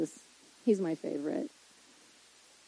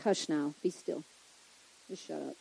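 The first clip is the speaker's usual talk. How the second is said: low, soft, firm command; emphatic, not raised; 6 semitones lower, 8 dB quieter than usual. Acted. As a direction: quietly put them in their place. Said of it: "I think he was emphatic".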